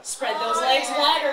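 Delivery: mildly snappish command; snapped order. Acted. Hillary ordering her partner in fan fiction, snapped. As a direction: snap it as a curt mock order. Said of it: "Hillary Clinton snapped".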